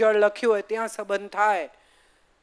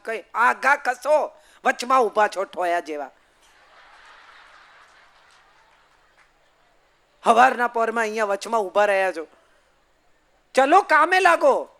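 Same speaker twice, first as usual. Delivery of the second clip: wife snapping at her husband in the morning, building to a loud command; scolding wife; 5 dB louder than usual. Retold or imitated. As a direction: brush the husband aside rudely, ending with a loud order.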